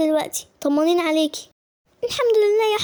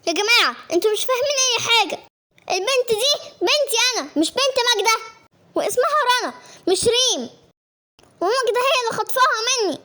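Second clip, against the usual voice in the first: insistent protest; 4 semitones higher than usual. Acted. Accused woman claims the child.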